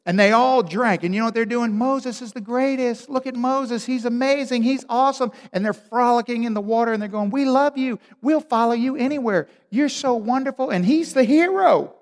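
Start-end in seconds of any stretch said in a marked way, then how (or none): 1.8-5.3 adoring crowd. Retold or imitated. Crowd cheering Moses. 7.3-10.7 high, loud fan gushing; the crowd praising Moses, pitched high and loud; adoring crowd. Retold or imitated.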